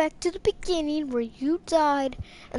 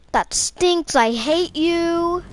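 frustrated outburst; 5 semitones higher, 4 dB louder, slower than usual. Real, not acted. Game blocks him, then "Not you.

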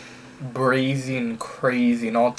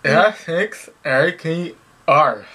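slower through a mouthguard; 3 semitones higher than usual. Real, not acted. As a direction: repeat it slowly through a mouth guard. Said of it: "gonna go in my mouth".

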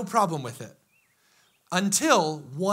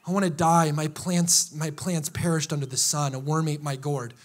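mope like someone wallowing on the couch; sulking self-pity; 5 semitones lower than usual. Retold or imitated. A sulking believer moaning to God, low and mopey. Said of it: "and you're just like".

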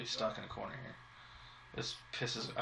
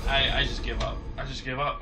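fed-up outburst; 8 dB louder than usual. Real, not acted. Rage-quitting the level.

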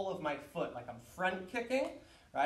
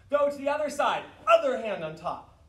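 loud, raised instructor's call; called-out command; 6 semitones higher, 8 dB louder than usual. Real, not acted. Teacher switching students to the other side, loud command. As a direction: project it across the training hall. Calling commands to class mid-drill.

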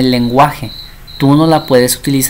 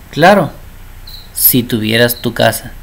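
mother's catch reply; 2 semitones lower than usual. Acted. Mother answers child wanting independence, lightly acted yes with a catch.

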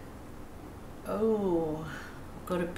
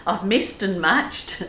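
laughing at slip; 3 dB louder than usual. Real, not acted. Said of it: "not mixed and matched".

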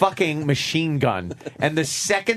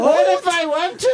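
put-on Canadian accent; 4 dB louder than usual. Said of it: "That was supposed to be Canadian?".

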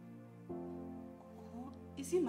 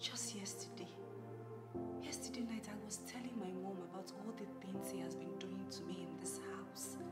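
soft, whispered, despairing musing; whispered lament; 7 semitones lower, 14 dB quieter than usual. Acted. Wife alone after the fight, whispering her sorrow. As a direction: confide your hurt under your breath.

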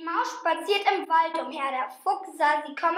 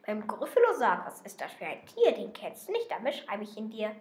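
lower, darker questioning; snake voice; 3 semitones lower than usual. Acted. Snake asking what the Gryffalo is, lower. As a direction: drop into a slithering low voice.

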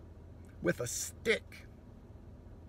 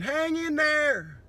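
mock celebrity plea; 6 semitones higher, 4 dB louder, much slower than usual.

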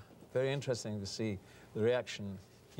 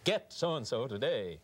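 TV selling voice; 2 semitones higher, slower than usual. Shown as a demonstration. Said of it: "all those T V selling voices".

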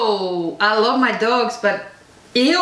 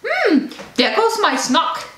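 voicing the dog; 6 semitones higher, slower than usual. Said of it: "and she like".

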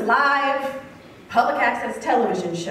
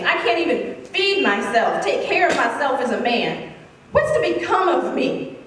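retold angry, desperate plea, pitched higher; enraged; 4 semitones higher than usual. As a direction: plead indignantly, acting out the wronged man. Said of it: "finally he becomes enraged".

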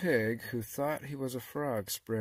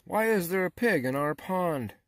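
higher, louder, astonished question; startled frogs; 8 semitones higher, 7 dB louder than usual. A narrator's reading. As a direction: ask it like an indignant, startled frog. Frogs react to a stranger.

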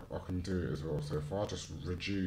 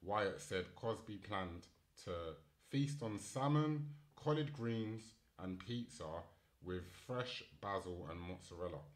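reading article aloud; 6 dB quieter than usual. Real, not acted. Reads news article aloud.

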